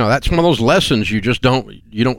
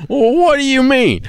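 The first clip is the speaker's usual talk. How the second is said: higher, offended comeback; insulted young self; 3 dB louder than usual. Retold or imitated. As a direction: sound stung and defensive. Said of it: "I said".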